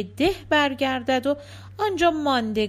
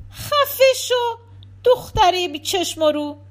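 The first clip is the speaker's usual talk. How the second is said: high, loud scolding yell; angry shout; 8 semitones higher, 5 dB louder than usual. Acted. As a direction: shout her down, stretching the first words. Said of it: "بتول خانم داد زد".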